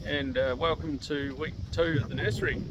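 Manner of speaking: outdoors, wind hitting the mic. Real, not acted. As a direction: wind noise over the mic. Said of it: "excuse the wind noise out here".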